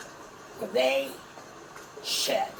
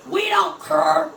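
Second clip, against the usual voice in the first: loud; 2 semitones higher, 8 dB louder, slower than usual. Real, not acted. Shouting the lyric back.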